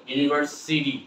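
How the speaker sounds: "ইউনিভার্সিটি" with D for the T. Shown as a demonstration. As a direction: say "ইউনিভার্সিটি" ending in "see-dee". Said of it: "এটা উচ্চারণ হবে কি?". ("ইউনিভার্সিটি"-র ট-কে ড বলে)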